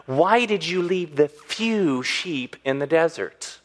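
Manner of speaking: slow, mildly mocking question. Older brother belittles the shepherd boy, mocking. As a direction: draw it out with a touch of scorn. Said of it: "you hear the mocking in his voice".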